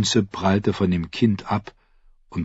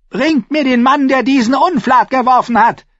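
high, loud royal order; commanding shout; 5 dB louder than usual. A narrator's reading. King demanding the dung thrower, commanding shout. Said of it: "befahl Joffrey".

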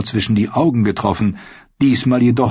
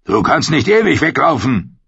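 cursing knight; 6 semitones higher than usual. Acted. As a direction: curse her as she keeps running. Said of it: "Der Ritter fluchte".

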